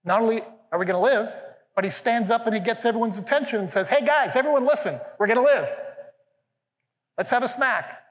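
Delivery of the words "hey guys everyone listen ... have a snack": higher and louder, rousing the crowd; excited announcement to the shipmates; rallying call. Retold or imitated. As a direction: call everyone to listen with big energy. Paul rallies everyone on ship.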